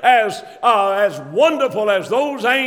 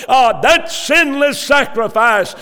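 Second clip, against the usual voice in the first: louder and slower, each word hammered; slow preaching shout; 4 semitones higher, 4 dB louder than usual. Real, not acted. Preacher stressing the sacrifice to his listeners, slow shout. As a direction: drive home that sinless sacrifice.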